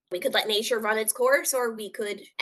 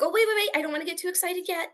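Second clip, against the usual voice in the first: 1 anxious self-caution; 9 semitones higher, much faster than usual. Retold or imitated. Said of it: "it was like".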